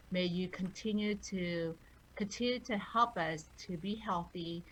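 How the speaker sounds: steady, earnest blessing prayer; gentle spoken benediction; closing prayer. Real, not acted. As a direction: pray over the listeners, calm and sincere.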